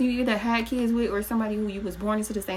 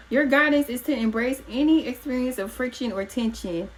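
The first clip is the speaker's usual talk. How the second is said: loud; 5 semitones higher than usual. Real, not acted. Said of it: "I just had to get loud".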